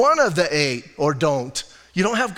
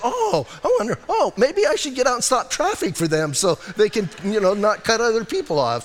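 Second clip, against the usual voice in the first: mock sweetness; 4 semitones higher than usual. Mocking over-kind driver thoughts.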